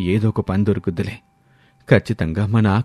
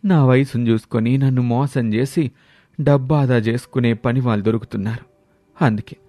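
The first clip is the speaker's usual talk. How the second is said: higher, lightly voiced old trader; distressed old man; 4 semitones higher than usual. Old trader telling Ramulu he was robbed, lightly voiced and distressed. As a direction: plead like a shaken old man.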